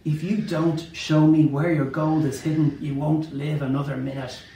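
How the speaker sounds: mild mock yell; lightly voiced yelled threat. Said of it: "his fist and yelled".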